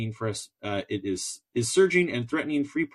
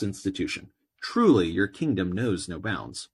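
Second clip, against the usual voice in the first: put-on terrible American accent. Podcaster reading a prisoner's letter to the king, in a hammed-up American accent. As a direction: read the letter like a self-mocking American orator. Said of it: "I'm gonna read it in my terrible American, uh, you know, groaning accent".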